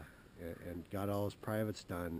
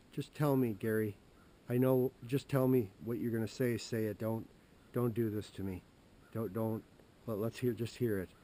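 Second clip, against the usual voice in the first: louder, urgent begging; anxious pleading; 3 semitones higher, 6 dB louder than usual. Retold or imitated. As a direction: demand the news, panicky. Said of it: "she'd be like".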